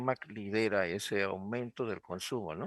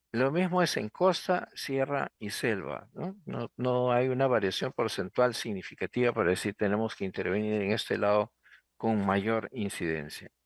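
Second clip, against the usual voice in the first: muffled behind a covering hand; hand over mouth. Real, not acted. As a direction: speak through a covered mouth. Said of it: "Si ustedes me ven con la boca tapada".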